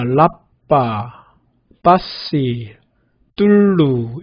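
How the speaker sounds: 라빠, 빠시, 뚫루 said slowly, the final r almost silent; final r dropped. Shown as a demonstration. Teacher showing the Malay way, final r nearly silent. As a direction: let the last r fade away. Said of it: "마지막 음절에서는 거의 들리지 않게".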